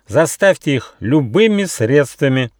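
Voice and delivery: fairy orders her guards furiously; angry order. A narrator's reading. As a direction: order it in fury. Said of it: "закричала фея".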